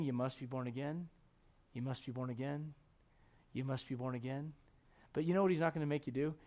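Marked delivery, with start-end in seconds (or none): 0.0-4.5 gentle whispering call. Acted. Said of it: "he might just be saying".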